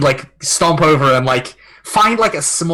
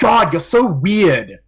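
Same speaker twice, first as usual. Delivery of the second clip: put-on scathing teen scorn, slow irritated sigh; 3 semitones higher than usual. Voicing a thirteen-year-old character brushing off another: frustrated, irritated teenage sigh. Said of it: "sigh in the most, like, frustrated, irritated way possible for a thirteen-year-old".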